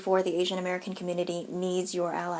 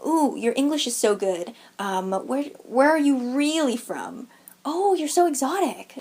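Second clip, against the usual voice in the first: mock ignorant remark; 4 semitones higher, slower than usual. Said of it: "Just to list a few mild examples, there's".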